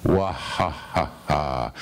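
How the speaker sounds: slow, low spoken "wah ha ha ha"; measured poetic mock laughter. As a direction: draw out a deliberate, wordy laugh. Plays on surname as laugh in poem.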